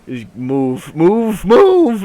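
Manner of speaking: builds from plain to a loud, high "move!"; panicked yelling. Retold or imitated. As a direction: yell at the driver to get off her foot. Mom yelling as car crushes foot.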